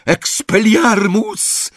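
very high, drawn-out incantation; piercing battle cry; yelled spell. A narrator's reading. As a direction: scream the spell, holding it long. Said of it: "wrzasnął Harry".

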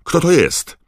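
very high, loud questions; astonished, urgent yelling; incredulous shout. A narrator's reading. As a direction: demand names in open disbelief. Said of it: "zawołał pan Crouch z jawnym niedowierzaniem".

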